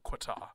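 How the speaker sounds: Qatar said with a w, "kwa-tar"; mispronounced Qatar. Shown as a demonstration. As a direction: put a w after the Q in Qatar. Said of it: "it's not Qatar".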